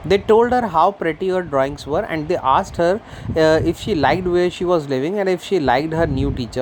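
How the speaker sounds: slow, careful read-aloud of the English text; story reading. A narrator's reading. Teacher reading the story slowly to her class. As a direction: read each word out slowly for the students.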